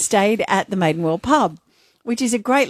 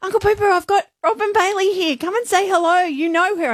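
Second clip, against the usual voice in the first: higher, lightly voiced tipsy girl calling; sing-song call across the pub; 9 semitones higher than usual. Tipsy fan calling her uncle over, lightly imitated.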